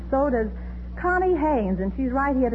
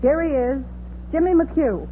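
rising announcement of a guest; announcer build-up; 4 semitones higher than usual. Acted. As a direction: build up to the name.

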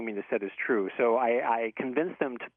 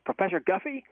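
higher-pitched imitation of a Southern caller; Southern accent; 7 semitones higher than usual. Stranger phoning the professor at night, imitated Southern accent. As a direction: ask it as a Southern good old boy. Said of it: "like, a thick Southern accent".

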